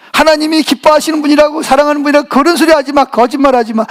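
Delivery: mildly accusing, hammed-up complaint; acted defiance against God. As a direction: play someone confronting God, rising at the end. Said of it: "막 그러면서 하나님 막 대적을 합니다". (하나님께 대들듯 따지는 흉내)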